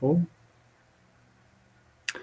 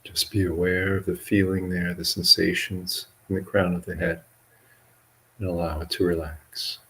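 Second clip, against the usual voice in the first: measured meditation guidance with long pauses; guided meditation. Acted. Monk leading livestream listeners and yogis in relaxation, guided meditation. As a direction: guide listeners unhurriedly, leaving long silences between phrases.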